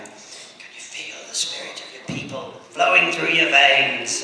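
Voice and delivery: lightly voiced Irish dad; a hint of a mystical, stirring father; dad's voice. Dad to teenage son visiting Dundalk, lightly imitated dad's voice. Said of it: "picture my dad's voice in my head".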